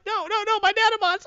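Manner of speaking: very high mock panicked wail; hammed-up villain despair; Brainiac. Brainiac losing his nanobots.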